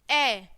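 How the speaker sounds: ए as the short first vowel of elephant; letter sound demo. Shown as a demonstration. Teacher showing the sound in elephant, letter sound demo. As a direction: sound out ए on its own. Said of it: "एलिफेंट की sound कैसे आएगी".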